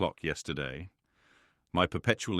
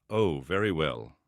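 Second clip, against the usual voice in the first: slow, louder exclamation; an eager old lady exclaiming, louder and slow; 4 dB louder than usual. Acted. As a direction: burst out with it, drawn out and loud. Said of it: "exclaimed Miss Bates".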